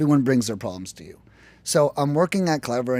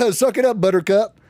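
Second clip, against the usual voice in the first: dismissive millionaire; 5 semitones higher, 5 dB louder than usual. Retold or imitated. Mocking a callous millionaire.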